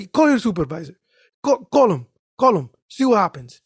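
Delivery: put-on high, insistent Arab-accented demand; imitated Arab accent. Arab driver demanding a supervisor, insistent imitated Arab accent. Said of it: "He's an Arab dude".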